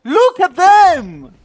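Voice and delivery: loud, slow, seething complaint; furious rant. Real, not acted. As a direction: blow up at your useless team. Raging at teammates mid-match.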